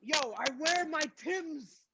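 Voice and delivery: badly faked Bronx accent; swaggering, clumsy attempt at a Bronx accent; terrible Bronx accent. Host gives clues in guessing game, terrible Bronx accent. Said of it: "This is a terrible accent".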